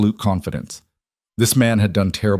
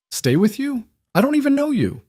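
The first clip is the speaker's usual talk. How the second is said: bitter disbelief. A narrator's reading. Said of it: "It came out sharp and bitter".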